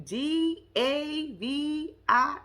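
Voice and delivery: D A V I drawn out letter by letter; unsure spelling of D A V I; slow hesitant spelling. Shown as a demonstration. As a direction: slowly spell D A V I. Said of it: "No, I'm sorry. That's an I".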